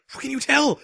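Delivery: high-pitched, incredulous question; mock incredulous. Baffled by how she knows.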